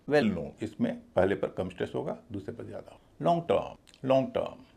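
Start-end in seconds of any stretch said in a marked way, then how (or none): 0.1-0.6 well light, known given more weight; stress on KNOWN. Shown as a demonstration. Teacher modelling a compound adjective, stress on known. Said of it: "known पर ज़्यादा दे रहा हूँ". 3.2-4.6 लॉन्ग lighter, टर्म weightier; stress on टर्म. Shown as a demonstration. Teacher modelling a compound adjective, stress on टर्म. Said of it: "लॉन्ग में कम stress है".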